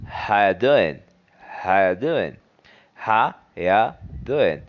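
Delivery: How you doing with How as ha and the G dropped; casual run-together How ya doing; reduced greeting. Shown as a demonstration. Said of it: "And this sounds in this way".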